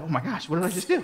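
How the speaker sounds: mildly shocked, breaking into laughter; surprised at himself. Retold or imitated. Boy who just punched his friend, surprised at himself. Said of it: "I was surprised at myself".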